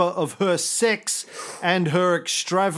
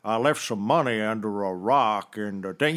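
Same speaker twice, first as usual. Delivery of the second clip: imitating Morgan Freeman; 7 semitones lower than usual. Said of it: "Morgan Freeman".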